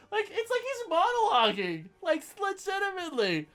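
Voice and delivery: high, giggly talk through laughter; laughing. Real, not acted. Podcaster amused by the reviewer's monologue, laughing. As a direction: laugh while you speak. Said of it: "I can't help but laugh".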